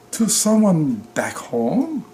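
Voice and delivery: slow, lifted hopeful question; a touch of hope, asked gently; lightly voiced gypsy, hopeful and slow. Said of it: "her voice sounding hopeful".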